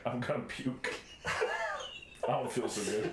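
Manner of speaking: slow, drawn-out sick voice; mock queasy. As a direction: fake feeling nauseous.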